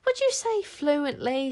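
slow, dry sceptical muttering; doubtful aside. Acted. Caliburn doubting Tsar's boast, dryly. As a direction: raise an eyebrow with your voice. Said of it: "to no one in particular".

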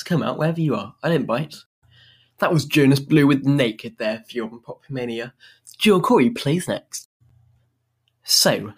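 normal talking voice

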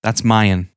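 "mine" drawn out as "mai-en"; two-beat "mine", "mai-en"; odd pronunciation. Shown as a demonstration. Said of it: "That's how they say it".

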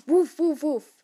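loud, high acted woofs; barking dog. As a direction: bark out each word sharply. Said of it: "Still random dog".

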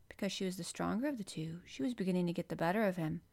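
usual speaking voice

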